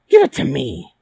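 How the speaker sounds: loud, high scornful hag; old troll hag. Acted. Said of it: "said the old troll hag".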